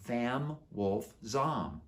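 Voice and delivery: Vam Wolf Zom said very slowly, each word apart; spelled-out repeat. Shown as a demonstration. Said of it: "Vam Wolf what?".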